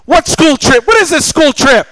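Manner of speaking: mock surprise. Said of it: "I'm playing with this".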